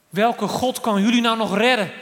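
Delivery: high, forceful taunting shout; calling out. Acted. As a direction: act out a defiant king crying out. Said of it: "riep Nebukadnezar".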